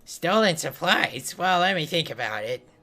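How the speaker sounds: a hint of a gentle old cleric; kindly priest. Priest NPC voiced.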